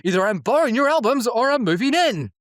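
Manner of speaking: imitating Oz. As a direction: tease Giles about his albums. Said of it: "Oz is like".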